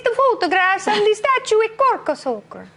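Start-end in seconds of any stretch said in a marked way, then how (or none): 1.6-2.7 slow, hammed-up Italian accent; drawn out in a mock Italian accent. Shown as a demonstration. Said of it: "say cork soaker in the Italian accent".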